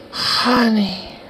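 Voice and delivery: high-pitched parroting; mimicking video woman. Mimics woman in played clip.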